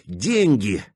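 plain reading voice

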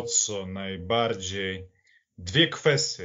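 ordinary delivery

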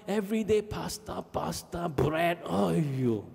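high, whiny complaint about the food; whining teen son. Retold or imitated. Son whining to his dad about Italian food.

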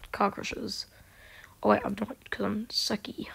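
quick self-mocking whisper; whispered aside. Real, not acted. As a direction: drop to a whisper as a joke on yourself.

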